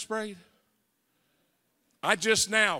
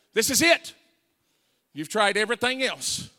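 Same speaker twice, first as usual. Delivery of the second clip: much higher, louder commanding voice; voice of God; 5 semitones higher, 8 dB louder than usual. Retold or imitated. God's voice telling him to repent, loud and commanding. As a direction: speak as the divine voice at the door. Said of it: "a voice said".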